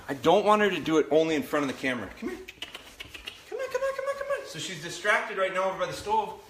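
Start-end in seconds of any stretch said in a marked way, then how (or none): 2.2-4.5 much higher, sing-song come here; high puppy call. Real, not acted. Trainer coaxing the puppy over, high sing-song call.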